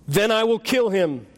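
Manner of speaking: lightly voiced angel; a hint of a solemn spirit; unearthly voice. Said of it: "said the angel".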